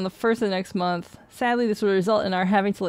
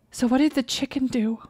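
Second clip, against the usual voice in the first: higher, meek punchline; timid parrot; 4 semitones higher than usual. Acted. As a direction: ask it nervously. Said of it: "And the parrot says".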